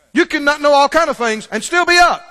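loud shouted point; preacher's shouted declaration. Real, not acted. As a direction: shout it to the congregation.

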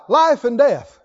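shouted call for the church to repeat; loud call. Shown as a demonstration. Preacher to congregation, shouting a line to repeat. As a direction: lead the crowd in a loud refrain. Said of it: "Sit out loud".

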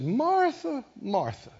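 gentle rebuke. Retold or imitated. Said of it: "He said".

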